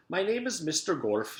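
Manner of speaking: a hint of a gentle old teacher; comfort and wisdom. A narrator's reading. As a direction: sound wise and comforting. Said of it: "His voice was full of comfort and wisdom".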